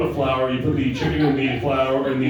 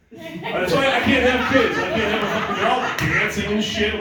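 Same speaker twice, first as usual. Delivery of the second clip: laughing through it; 7 semitones higher than usual. Real, not acted. Laughing rant about kids.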